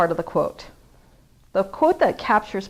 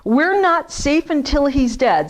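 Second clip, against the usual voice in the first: spoken Gaston line; 6 semitones higher, 6 dB louder, slower than usual. Retold or imitated. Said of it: "I'm gonna try not to sing".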